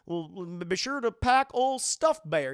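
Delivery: slow, drawn-out goofy dad voice; a slow, doting cartoon dad urging his son to pack.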